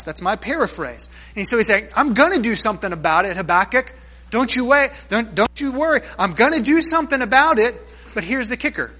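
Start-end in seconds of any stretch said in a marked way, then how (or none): 1.9-7.7 emphatic reassurance. Acted. Voicing God's reassurance.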